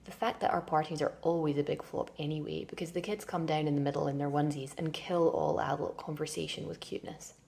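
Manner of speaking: steady, absorbed literary reading voice; a hypnotic stream-of-consciousness reading; reading aloud. Acted. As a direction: read it as one long flowing inner monologue. Reads novel extract aloud.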